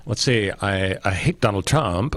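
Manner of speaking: put-on lightly done Valley Girl accent; a hint of a Valley Girl juror. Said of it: "are you doing the Valley Girl accent?".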